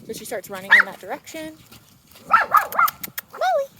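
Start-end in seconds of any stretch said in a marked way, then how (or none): 2.3-3.7 high, loud call of her name; calling the dog. Real, not acted. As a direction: call her back from across the path.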